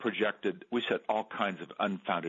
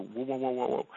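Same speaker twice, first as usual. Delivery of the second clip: raised, surprised whoa to calm her; high startled objection to his wife; startled protest; 5 semitones higher than usual. Retold or imitated. Husband halting his upset wife, startled and raised.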